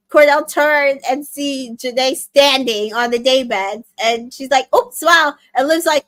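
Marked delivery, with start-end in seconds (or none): 4.7-5.3 higher, louder embarrassed oops; startled little yelp of surprise; caught out oops. Retold or imitated. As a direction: blurt it like you just got caught. Janae caught standing on daybed.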